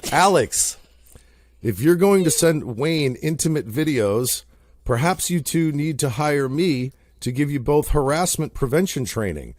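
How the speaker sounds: hammed-up question read-out; mock formal reading. Shown as a demonstration. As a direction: announce it like a radio host reading mail. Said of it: "All right, here we go".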